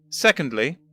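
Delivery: put-on a condescending old professor; pompous old gentleman. First Doctor lectures.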